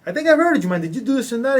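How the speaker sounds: a hint of Logan warming to him; impressed Logan. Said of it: "Logan actually literally stopped and go".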